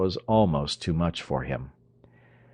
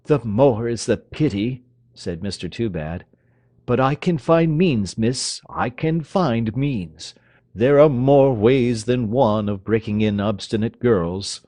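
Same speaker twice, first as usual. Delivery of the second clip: loud, higher menacing father, slowing on the threat; stern father; 4 semitones higher, 5 dB louder than usual. Acted. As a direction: threaten the stubborn girl. Toobad threatens daughter.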